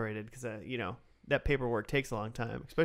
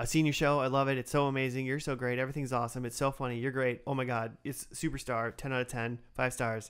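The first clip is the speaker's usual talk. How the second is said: ordinary talk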